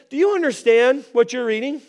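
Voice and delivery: quick, casual question; simple question. Retold or imitated. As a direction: toss it out simply. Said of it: "I mean, it's simple".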